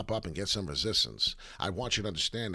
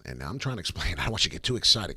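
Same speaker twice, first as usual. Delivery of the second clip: normal talking voice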